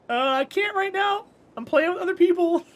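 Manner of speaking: put-on high, childish whine; whiny kid. Gamer kid whining back at dad that he can't stop, in a high voice. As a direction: answer like a sulky kid.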